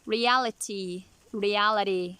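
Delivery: reality said as realidy, flapped T. Shown as a demonstration. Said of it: "Flap T".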